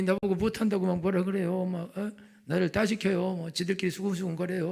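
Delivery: high-pitched grumbling mimicry; whiny mock complaint. Worker complaining about colleagues at work, mock whining. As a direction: whine like a put-upon employee. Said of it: "울고 불고".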